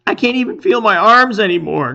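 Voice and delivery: crying out. A narrator's reading. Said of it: "cries Sars".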